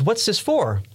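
high, alarmed mock question; panicking friend. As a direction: act out the friend suddenly panicking. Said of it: "starts to panic and says".

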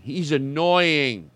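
drawn-out, understated annoyance; very slow turn from praise to complaint; mock irritation. Host turning on adorable emailer, restrained mock irritation. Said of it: "That escalated quickly".

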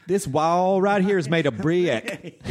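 slow, high drawl stretching brick into two syllables; Mississippi accent. Retold or imitated. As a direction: imitate the Mississippi stepmom, slowly. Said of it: "they add syllables to single syllable words".

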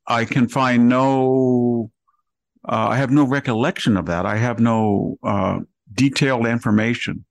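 a lightly voiced, evasive Comey in testimony; mocking Comey. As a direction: play him as a dodging witness who remembers nothing. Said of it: "remember what he said?".

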